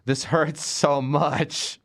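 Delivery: slow, drawn-out mock suffering; dragged-out comic misery; mock anguish. Real, not acted. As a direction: stretch the hurts out in pretend pain. Pained by reviewing the movie.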